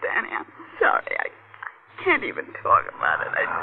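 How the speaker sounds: breathy half-whisper, voice giving out; too upset to get the words out; shaken, whispered. Acted. Woman tells her husband she cannot speak of the attack, shaken and whispering.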